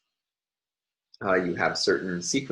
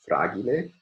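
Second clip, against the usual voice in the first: Latin "fragile" in three syllables, stressed on the first. Shown as a demonstration. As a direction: say "fragile" as Latin, weight on "fra". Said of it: "with primary stress on the first syllable".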